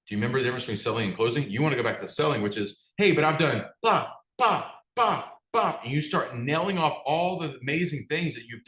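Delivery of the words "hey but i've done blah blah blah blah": mock whining. Mock whining self-defense.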